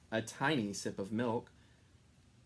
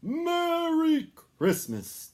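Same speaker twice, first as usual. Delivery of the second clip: much higher, slow, loud greeting; festive call; 10 dB louder, much slower than usual. A narrator's reading. Santa calling farewell to Texas, loud. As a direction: call it out to the whole state.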